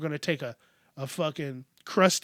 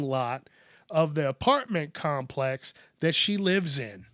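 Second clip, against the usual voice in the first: news read. Acted. Host presenting a news item to listeners, measured news read. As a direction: read it out like a news story, each key word weighted. Reads a news story aloud.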